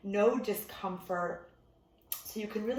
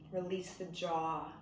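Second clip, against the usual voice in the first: unhurried meditation teacher, long pauses between instructions; guided meditation. Real, not acted. Meditation teacher settling listeners into breath before bed, calm guided delivery. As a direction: ease them gently into stillness, leaving room to breathe.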